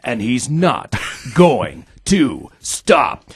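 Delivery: dramatic trailer narration, drawn out; movie trailer voice. Acted. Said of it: "the movie trailer guy".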